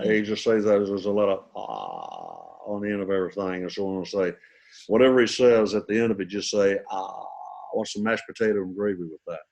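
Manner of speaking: a hint of the singer's low murmured "uh"; a singer. Impressionist explaining the singer's verbal tic, lightly imitating. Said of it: "Elvis Presley, you can do that".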